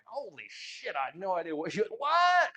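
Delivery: mock bewilderment rising to a high shout; baffled outburst. Pupil reacting to coach's puzzling advice, baffled outburst. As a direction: explode on a high, loud "what".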